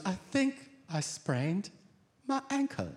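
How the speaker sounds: lightly voiced hurt wife; wife in pain. Injured wife at stairs bottom, mild whimper. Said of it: "And she goes".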